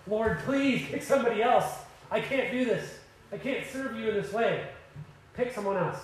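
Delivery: beg, worn out, to be let off; broken-down plea. Retold or imitated. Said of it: "Moses finally just breaks down".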